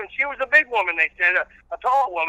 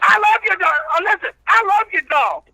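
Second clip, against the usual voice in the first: country preacher character; 9 semitones higher than usual. Acted. Old reverend preaching patience to the radio host, in full preacher voice. Reverend rants about dog toys.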